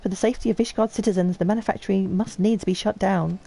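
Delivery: lightly voiced haughty aristocrat; lofty noble. Noble lecturing the player about shutting the manufactory, lofty. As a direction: declaim with cool superiority.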